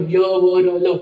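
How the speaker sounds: teacher says य, व, र, ल one by one; demonstrating sounds. Shown as a demonstration. Teacher demonstrating sounds for students. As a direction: sound out य व र ल clearly. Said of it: "जैसे उच्चारण करो".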